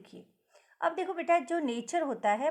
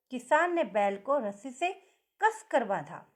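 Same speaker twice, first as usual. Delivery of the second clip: कसकर pressed a bit harder; stress on कसकर. Shown as a demonstration. Teacher stressing कसकर for the class. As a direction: lean on कसकर, tightly. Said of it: "कसकर इस शब्द पर ज़्यादा जोर".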